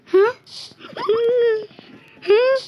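startled huh. Real, not acted. Sudden attack.

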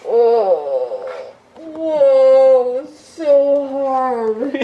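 groggy, slurred post-anesthesia speech; drowsy and dazed from surgery drugs; sedated. Real, not acted.

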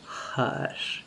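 soft breathy hush; modest whisper. A narrator's reading. Hippogriff quieting Lionel, a modest soft whisper. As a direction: hush him gently and modestly. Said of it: "whispered the hippogriff modestly".

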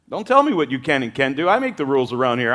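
fast, stern divine rebuke; God rebuking Peter, stern and fast. Acted. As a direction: lay down the law quickly.

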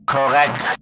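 cold eerie radio reply; monster voice. Acted. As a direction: say it like an inhuman copy. Monster answers over radio.

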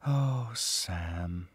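softly spoken, almost under the breath; quiet. A narrator's reading. Marion softening toward Sam, speaking quietly. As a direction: say his name gently, barely above a murmur. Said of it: "she said quietly".

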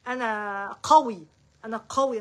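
emphatic affirmation. Shown as a demonstration. Coach models affirmations for her followers, emphatic and assured. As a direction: assert it firmly, first one drawn out and loud.

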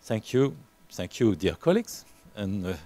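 careful, hesitant English with a French accent; halting French-accented English. Real, not acted. Welcoming George in halting English with a French accent. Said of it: "avec mon pauvre anglais".

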